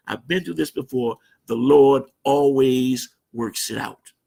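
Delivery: slow and unhurried, a touch of a calm bishop. Retold or imitated. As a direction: settle everyone with slow, easy confidence. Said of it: "he would sit there and remain calm".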